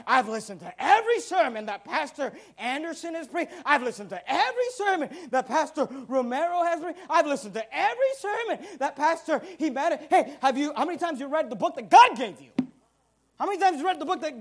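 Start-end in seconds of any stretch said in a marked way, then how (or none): 0.1-10.0 bragging listener, with a laugh; mock boasting. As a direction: show off smugly, half laughing. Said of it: "people want to boast and brag".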